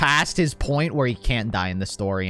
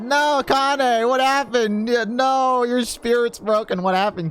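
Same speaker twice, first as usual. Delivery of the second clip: alarmed character voice; 10 semitones higher than usual. Acted. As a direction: pitch it up in alarm.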